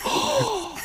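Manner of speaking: high, surprised oh; sudden realization. Retold or imitated. Actor realizing the Italian meaning, high and surprised.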